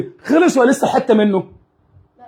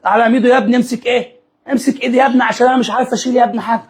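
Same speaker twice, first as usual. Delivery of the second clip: put-on old woman voice; 2 semitones higher, faster than usual. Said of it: "كل شوية تقول لي إيه".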